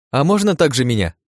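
high-pitched, excited asking; keen, lifted voice; eager request. A narrator's reading. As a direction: beg for your turn. Excited girl begs a turn.

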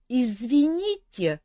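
slow, high raspy ghost voice; a cold-ridden phantom, drawn out; hoarse phantom. Acted. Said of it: "знакомый простуженный голос".

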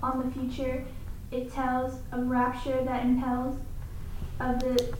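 measured, rhythmic recitation of a poem; poem reading. Acted. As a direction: read it aloud, letting the repeated words ring. Student reads Poe's Bells aloud.

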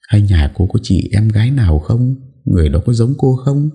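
lightly voiced stern matron questioning; pressing questions. A narrator's reading. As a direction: demand answers, voiced as the mistress. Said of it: "Bà cả thấy thế hỏi dồn".

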